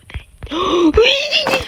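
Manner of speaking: loud, high-pitched outburst; startled high cry. Real, not acted. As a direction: cry out sharply in shock. Startled cry at game mishap.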